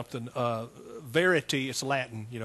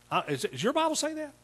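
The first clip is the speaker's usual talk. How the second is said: surprised question; 10 semitones higher than usual. Real, not acted. Surprised check with congregation.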